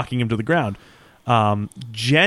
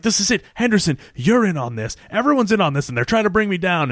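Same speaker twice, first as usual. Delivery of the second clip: higher-pitched mock outburst; retold accusation; 6 semitones higher than usual. Lucky Charlie to Henderson on the setup, accusing. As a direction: accuse them all in a raised pitch. Acted accusation by cornered villain.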